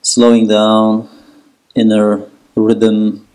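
steady meditation guide with long pauses; guided relaxation. Acted. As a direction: lead them into letting go, unhurried, even-toned. Guides breathing and relaxation in child's pose.

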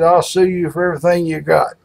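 playfully acted legal threat; threatening lawyer.

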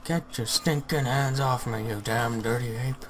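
slow, drawn-out mock movie line; hammed-up hero defiance, taken very slowly; Planet of the Apes quote. Reciting the iconic ape movie line to a friend, slow and hammed. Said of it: "I think it's Planet of the Apes".

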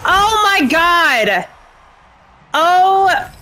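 high, breathless win excitement; thrilled shouts after a victory; adrenaline rush. Real, not acted. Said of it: "My heart is pounding".

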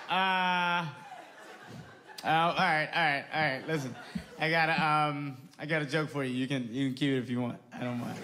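a hint of a fumbling rich white dad, giggling at his own joke. A girlfriend's father nervously setting up a joke for a comedian, chuckling. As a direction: stall and chuckle before a bad joke. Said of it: "He's like".

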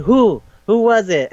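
high mock demand. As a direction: ask it high and urgent. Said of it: "it's like".

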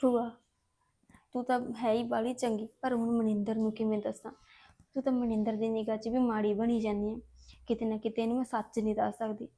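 softly, almost to herself; quiet inner monologue. Acted. Alone, Harpreet confides to her absent aunt, softly. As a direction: murmur private worries alone.

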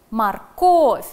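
loud "Морковь" with the stress on КОВЬ; stress on the syllable. Shown as a demonstration. Teacher dictating to pupils, loud stressed syllable. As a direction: hit the second syllable of "Морковь" hard. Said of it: "На второй слог падает ударение".

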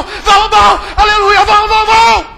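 loud, hyped chant of vamos; excited urging shout. Acted. Disciple hurrying the blind man, loud eager chant. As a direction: drive him on with joy. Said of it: "Ele fala".

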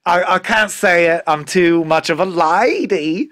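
lightly voiced prim lady, slow on the last line; a hint of a proper lady clutching her pearls. Podcast host voices the limerick winner, lightly prim and ladylike. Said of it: "And she goes".

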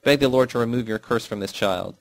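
mother's scream. Acted.

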